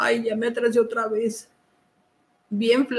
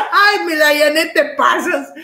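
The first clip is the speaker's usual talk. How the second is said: laughing; 3 semitones higher, 4 dB louder than usual. Real, not acted. Still laughing at Dayane.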